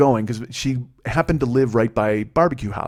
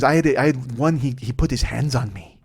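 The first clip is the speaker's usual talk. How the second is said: mock Mexican accent in his own register; heavy Mexican accent. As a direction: imitate the passenger's Mexican accent. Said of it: "she had a really heavy accent".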